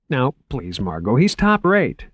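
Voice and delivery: bright, earnest museum curator voice; eager young curator. Acted. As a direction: pitch it up, keen and selling. Curator voice again.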